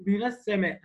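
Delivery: "من" in "من السماء" repeated with a nasal noon; "من السماء" بغنة في الخيشوم; ghunna demo. Shown as a demonstration. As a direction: hum the noon of "من" into the nose. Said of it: "حط إيدك كده".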